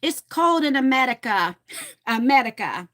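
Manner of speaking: a hint of a Russian Yiddish accent, lightly imitated; great-grandmother's accent. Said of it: "she would talk like this".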